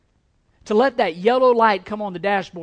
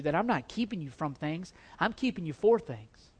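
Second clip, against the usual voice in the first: softer, intimate longing; soft tender plea; 5 dB quieter than usual. Acted. God longing for his people to trust him, softly. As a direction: plead quietly and lovingly.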